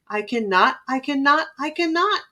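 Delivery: each "I cannot" an even puff, stepping up in pitch; chugging refrain. A narrator's reading. Old engine rumbles off to the roundhouse, chugging "I cannot" rhythmically.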